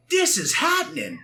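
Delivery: high-pitched, hammed-up excited yell; excited outburst. Retelling getting a Dreamcast for a birthday, excited. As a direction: cry it out high, playfully overexcited.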